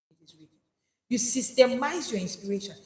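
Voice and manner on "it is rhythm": It is rhythm, barely voiced; whispered echo. Shown as a demonstration. Preacher echoing the point, almost silent. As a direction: fade it to a whisper. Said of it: "repeated line".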